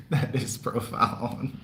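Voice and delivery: repeating it through a laugh; chuckling as it's said again. Real, not acted.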